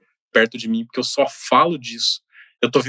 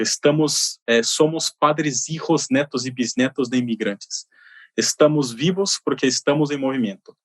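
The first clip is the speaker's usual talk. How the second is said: lightly Spanish-tinged Brazilian Portuguese; portunhol. Retold or imitated. Guest quotes an Uruguayan singer's lyric to the host, in portunhol. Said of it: "Perdoe meu portunhol".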